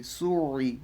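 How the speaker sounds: "সুই" with a throaty ayn in the middle; Arabic ayn sound inside "সুই"; from the throat. Shown as a demonstration. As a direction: squeeze the throat between the vowels of "সুই". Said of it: "এটা কিন্তু গলা থেকে পড়তে হবে".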